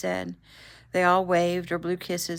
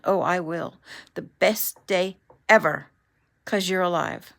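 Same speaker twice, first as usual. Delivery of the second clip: giggly; 6 dB louder than usual. A narrator's reading. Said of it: "She was laughing as she ended the call".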